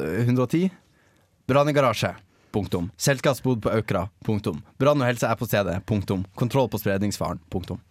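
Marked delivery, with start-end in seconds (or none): 1.5-7.8 very matter-of-fact. Retold or imitated. Host mimicking how emergency services tweet, very matter-of-fact. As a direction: read it like a dictated incident bulletin. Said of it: "Ja, veldig saklig".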